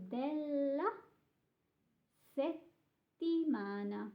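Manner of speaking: DELLA with a long, held double L, SETTIMANA with a stopped double T; double consonants. Shown as a demonstration. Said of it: "notice that you have two doubles".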